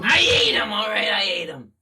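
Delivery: very high, loud shouted admission; shouted confession. Acted. Rat monster shouts to the crab hero that he ate his stepdad. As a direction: yell it back in his face.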